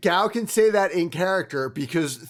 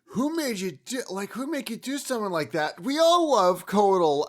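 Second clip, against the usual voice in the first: inspiring voice; 4 semitones higher than usual. Acted. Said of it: "using my inspiring voice again".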